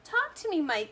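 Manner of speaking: high, loud pleading cry. A narrator's reading. Mother pleading with her son, high loud cry. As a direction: plead with him to answer. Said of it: "cried Missus T V".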